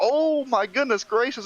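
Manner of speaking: startled, high, drawn-out, excited cry.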